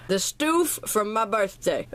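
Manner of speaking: stoof with a long oo, slow; playful stoof. Pretend. Naming the birthday gifts, stoof with a long oo. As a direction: say stoof like a silly word.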